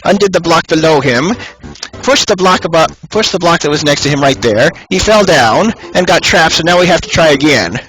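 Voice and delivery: grandma voice. Pretend. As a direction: tell it like a fussy old grandma. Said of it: "here's Grandma telling the story".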